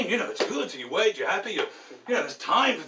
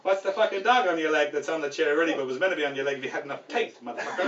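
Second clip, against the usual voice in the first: cocky mobster-style jibe; Joe Pesci; 3 semitones lower than usual. Acted. Kiosk man questioning a driver's dog, cocky. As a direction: needle him like a wise guy. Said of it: "kind of the cocky Joe Pesci guy".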